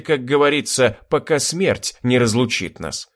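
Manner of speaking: plain reading voice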